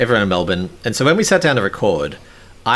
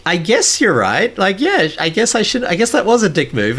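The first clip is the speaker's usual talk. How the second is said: high-pitched imitated concession; reluctant giving-in; 9 semitones higher than usual. Host imitating partner backing down in argument, reluctant giving-in. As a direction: mimic someone caving under pressure, pitched up.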